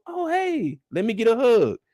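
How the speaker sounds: fake friendly. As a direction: gush falsely. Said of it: "anytime someone".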